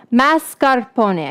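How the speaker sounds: Mascarpone said slowly, each syllable drawn out; careful pronunciation. Shown as a demonstration. Host correcting her own mispronunciation, slow and careful. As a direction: spell out Mascarpone as mas-car-po-neh. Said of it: "I keep saying it wrong".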